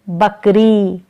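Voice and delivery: ordinary talk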